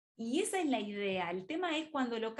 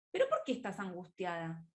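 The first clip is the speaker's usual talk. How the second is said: a doubting, challenging "¿Pero por qué estás angustiada?" that judges the feeling; a hint of reproach in the question; 3 semitones lower than usual. Shown as a demonstration. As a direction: ask "¿Pero por qué estás angustiada?" as if being anxious were wrong. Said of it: "mirá el tono".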